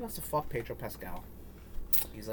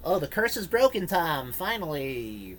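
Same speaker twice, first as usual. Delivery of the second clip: high, loud, hammed-up voice of a delighted gamer; mock triumphant fan; 5 semitones higher, 6 dB louder, slower than usual. Cohost mocks a game fan, hammed-up and high. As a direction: ham up a fan rejoicing that games finally got adapted.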